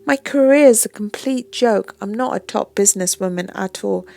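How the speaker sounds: half tearful. Acted. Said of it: "half tearfully".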